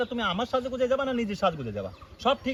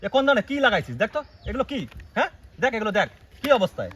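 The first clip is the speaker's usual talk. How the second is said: sharp, raised, indignant questions; angry scolding; 2 semitones higher, 3 dB louder than usual. Acted. Husband scolding wife over her lipstick, angry raised voice.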